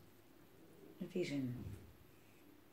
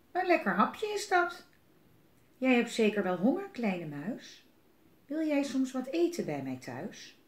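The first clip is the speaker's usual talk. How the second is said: sly fox; 3 semitones higher than usual. Acted. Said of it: "Vos die zag hem en die dacht".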